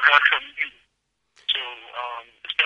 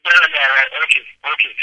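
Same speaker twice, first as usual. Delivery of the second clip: close to the phone; 3 dB louder than usual. Real, not acted. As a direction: mouth right on the phone. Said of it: "keep the phone real, real close to my mouth".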